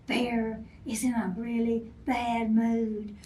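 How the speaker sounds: softly, like gossip; squirrels gossiping quietly. Acted. Squirrels warning each other about Bear, hushed. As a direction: keep it down so Bear won't hear. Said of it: "Little squirrels are talking to each other".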